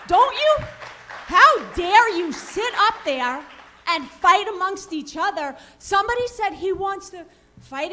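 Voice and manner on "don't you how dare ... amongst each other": high, loud, indignant challenge; furious parent at a board meeting; angry outburst. Real, not acted. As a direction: demand it of the board, outraged. Angry parent confronts school board.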